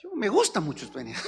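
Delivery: high, flustered backpedal; mock flustered worker. Worker backpedals to his boss, high and flustered. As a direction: scramble to sound eager. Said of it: "No, no hay horas extras".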